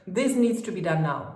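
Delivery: firm command. Shown as a demonstration. Coach demonstrating a commanding parent telling a child off, firm. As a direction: say it like a boss giving an order. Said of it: "you have to talk properly".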